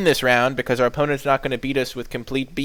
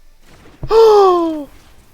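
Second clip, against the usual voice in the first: shocked gasp; 12 dB louder than usual. Real, not acted. Shocked gasp after the reveal.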